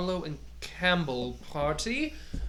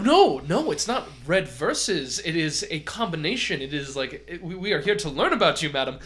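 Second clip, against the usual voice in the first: loud, quick, emphatic reassurance; eager protest; 7 dB louder than usual. Acted. The host reassuring the doctor about her wine, eagerly. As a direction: wave away her worry. Host eagerly overrules guest.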